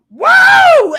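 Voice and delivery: high, loud burst of delight; imitating the girl's excited shout; excited whoa. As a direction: shout it out like a thrilled kid. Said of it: "she's all like".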